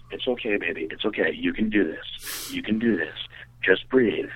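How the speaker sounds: low, slow soothing reassurance; mock gentle coaching. Coaching a nervous partner through it, mock soothing voice. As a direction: coax gently, pitched a little down. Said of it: "I had to actually coach her through it".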